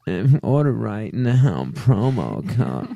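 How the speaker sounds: sultry commercial voice. Retold or imitated. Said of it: "I see these commercials".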